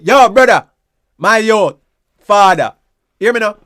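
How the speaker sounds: calling out. Shown as a demonstration. Greeting a male friend in the street, calling out. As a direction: call across the street to a man. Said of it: "You say".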